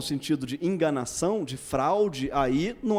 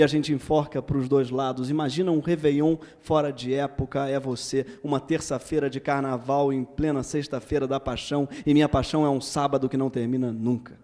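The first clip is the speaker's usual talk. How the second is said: tender love poem reading; poetry reading; 5 dB louder than usual. Acted.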